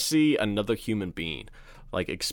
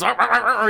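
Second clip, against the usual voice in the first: high, loud mock jolting cries; electrocution groans; 11 semitones higher, 6 dB louder, faster than usual. Farmer being electrocuted, loud high mock cries. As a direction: shudder as if shocked. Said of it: "he gets electrocuted".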